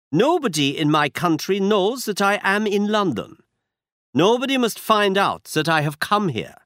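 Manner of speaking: put-on a proud Bohemian noble speaking with a German accent; German-accented count. A narrator's reading. Masked count introduces himself, German accent. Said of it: "He had a strong German accent".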